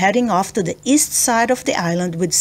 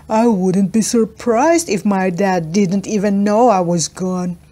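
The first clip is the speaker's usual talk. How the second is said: put-on sulky boy voice. Freddy's voice, sulky.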